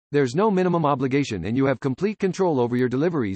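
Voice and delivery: ordinary talk, nothing marked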